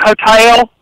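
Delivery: hotel drawn out as ho-TAIL in a Kentucky twang. Shown as a demonstration. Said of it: "I said it with some bizarre ... Somerset, Kentucky accent".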